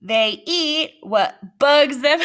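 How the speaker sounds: laughing through the punchline. Real, not acted. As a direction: giggle out the joke. Telling joke laughing.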